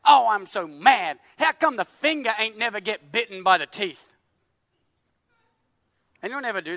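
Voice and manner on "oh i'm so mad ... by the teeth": mock anger. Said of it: "Imagine the tongue gets mad".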